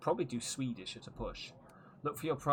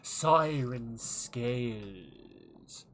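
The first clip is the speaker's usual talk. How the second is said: put-on higher, louder, slow merchant with an odd regional accent; merchant with weird accent; 4 semitones higher, 5 dB louder, slower than usual. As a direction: sell your exotic wares like a showy peddler. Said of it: "he's got a weird accent".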